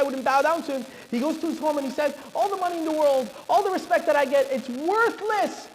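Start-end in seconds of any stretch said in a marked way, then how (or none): 2.3-5.7 high, rising exasperated complaint; villain venting in frustration; acted frustration. Haman complains at home in the story.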